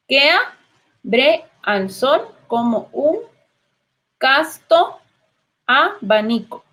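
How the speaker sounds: "que abre" slowly blended into one syllable; slow, joined syllables. Shown as a demonstration. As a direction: read slowly, linking the vowels of "que abre". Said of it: "la podemos unir porque hace sinalefa". (lento, uniendo "que abre" en sinalefa)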